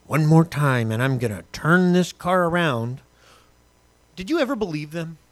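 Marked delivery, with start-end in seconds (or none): 0.1-3.0 louder, slow stern parent; parent threat. Retold or imitated. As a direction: threaten the kids in the car. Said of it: "Your parents ever do that".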